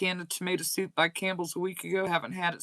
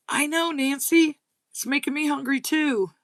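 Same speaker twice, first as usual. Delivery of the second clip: laughing; 7 semitones higher, 4 dB louder than usual. Real, not acted. Laughing reply to viewer.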